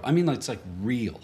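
weight on "real" after a short hold; emphatic REAL. Retold or imitated. Friend correcting the preacher's way of saying it, emphatic "real". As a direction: grope through the "like"s, then set "real" apart. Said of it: "like, a preacher says things are real".

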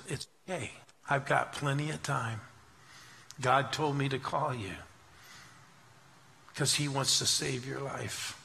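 gently retold reassurance, softened voice; warmly. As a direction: speak softly and kindly, giving them time. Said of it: "very warmly, she said".

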